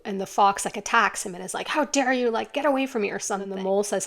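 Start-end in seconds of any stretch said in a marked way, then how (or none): 1.7-3.1 mock snarl, pitched up and lightly indignant; freaking out. Fox fighting off the mole trying to help, mock freaking out. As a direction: mildly voice a panicked fox lashing out. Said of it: "who's freaking out".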